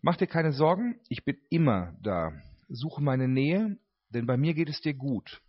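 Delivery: calm, earnest reading of a shepherd's words; reading own writing. Acted. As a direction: read it gently as the shepherd speaking. Reads own text as shepherd. (ruhig vorgelesene Hirtenworte)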